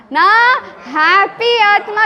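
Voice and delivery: slow, emphatic call-out; ಜೋರಾಗಿ ಹೇಳಿ; say it loudly. Shown as a demonstration. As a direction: proclaim it slowly, like a chant. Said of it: "ಜೋರಾಗಿ ಹೇಳ್ರಲ್ಲ".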